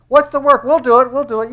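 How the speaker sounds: high, loud mock eagerness; volunteer loudly as an overconfident crowd; eager crowd. Crowd offering to do God's work, mock-eager.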